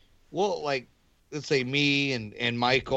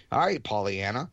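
mocking impatience; 4 semitones higher, faster than usual. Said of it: "and it's like".

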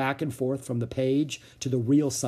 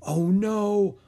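whispered; 8 semitones higher, 4 dB louder than usual. A narrator's reading. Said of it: "whispered Jack".

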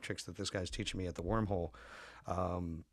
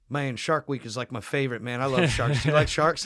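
loud, higher, dopey gushing about sharks; excited stoner impression; 4 semitones higher, 10 dB louder than usual. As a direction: ham up a spaced-out buddy raving about sharks. Stoned friend voiced in a story.

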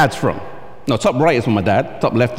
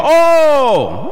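high, loud mock-surprised oh; 11 semitones higher, 4 dB louder than usual. Americans guessing his accent, with mock surprise. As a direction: play the smug guesser, caught by surprise. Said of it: "they go".

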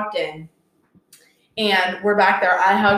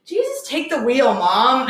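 lightly voiced sister; 5 semitones higher, slower than usual. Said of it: "your sister came over and said".

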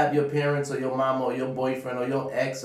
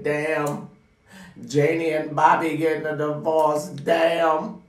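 louder, higher dismayed gossip; mock stressing; 6 semitones higher, 7 dB louder, slower than usual. Fretting over a neighbour's divorce, louder and higher. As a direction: overdo the shocked fretting. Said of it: "sit there stressing like".

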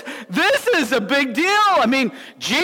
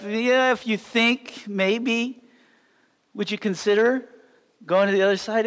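soft, hesitant, overly polite asking; mock polite suggestion; 3 semitones lower, 3 dB quieter than usual. Shown as a demonstration. Preacher mimicking a polite suggestion, hesitant and soft. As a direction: tiptoe around it like a timid request. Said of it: "It was command".

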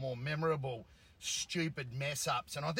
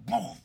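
short, louder "boof" blast; imitated explosion; 4 semitones higher, 6 dB louder than usual. Host retelling a TV comedy gag, imitated explosion. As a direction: mimic a bang going off behind.

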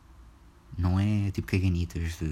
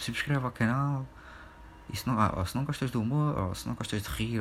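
mimicking the comedian; 4 semitones higher than usual. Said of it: "é tipo".

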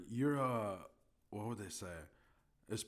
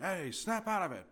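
higher, sharp mock scolding; old comedy slapper; 8 semitones higher, 4 dB louder than usual. Old-comedy character slapping someone sane, mock scolding. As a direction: play someone bringing a person to their senses. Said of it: "when people would just smack people".

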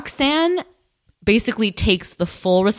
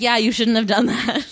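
amused retort; 3 semitones higher than usual. Retold or imitated. Host corrects his reply to her apology, amused retort. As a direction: reproach with a laugh in it.

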